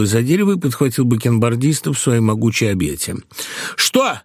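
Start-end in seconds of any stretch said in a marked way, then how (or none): 3.8-4.2 much higher, alarmed questions; startled old man's high cries; startled cry. A narrator's reading. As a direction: yelp in fright at being grabbed. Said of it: "закричал беспокойный старик".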